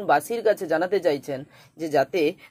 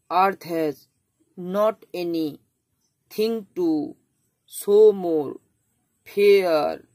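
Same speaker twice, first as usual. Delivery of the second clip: earth has / not anything to / show more / fair, broken into stressed beats with pauses; scanned in iambs; much slower than usual. Shown as a demonstration. Teacher scanning the poem's line in iambic rhythm for students. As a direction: read it to the meter's beat. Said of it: "এইভাবে কিন্তু একটা rhythm".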